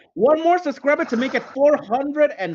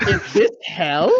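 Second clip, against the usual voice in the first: mock wailing Bob; 5 semitones lower than usual. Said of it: "Bob be like".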